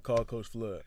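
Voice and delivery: man voice. Retold or imitated. Son telling his mom to phone the coach, in a firmer man voice. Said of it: "Give us the man voice".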